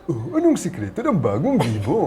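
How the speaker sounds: cartoonish puppet question; second puppet. Shown as a demonstration. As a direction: ask it as a curious ad puppet. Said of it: "the two puppets".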